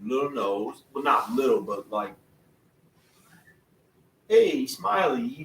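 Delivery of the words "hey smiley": imitating cousin. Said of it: "He talked like this".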